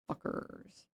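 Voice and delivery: whisper. Real, not acted. Muttered insult under breath.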